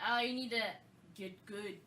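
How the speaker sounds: mildly snotty mock advice; condescending jerk. Player dismissing a rival, condescending. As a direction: imitate a smug player lightly. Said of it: "that tone of voice".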